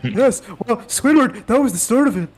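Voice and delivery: Squidward voice. Acted. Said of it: "is that the Squidward?".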